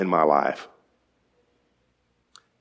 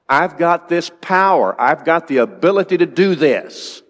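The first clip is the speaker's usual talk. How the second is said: Jesus insisting; 5 semitones higher than usual. Retold or imitated. Jesus voiced, insisting to Martha.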